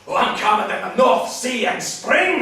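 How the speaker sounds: loud, high claim of being calm; anything but calm. Acted. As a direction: insist you're calm at a near shout. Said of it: "Is that calm?".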